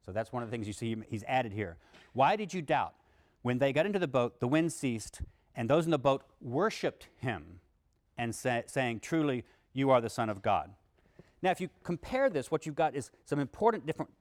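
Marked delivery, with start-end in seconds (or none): 2.1-10.7 raised, deliberate reading voice; louder scripture reading. Acted. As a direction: read the gospel text out to the class. Reads scripture passage aloud.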